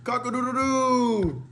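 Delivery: high, loud, slow cock-a-doodle-doo; rooster crow. Acted. Imitating a rooster call.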